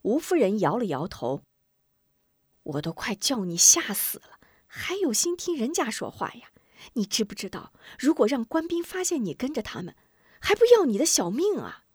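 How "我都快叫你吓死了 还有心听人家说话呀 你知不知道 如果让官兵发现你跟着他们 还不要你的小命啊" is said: high-pitched anxious reproach; mother's worried scolding. Acted. Mother scolds son for following soldiers, worried reproach. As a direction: scold him out of worry.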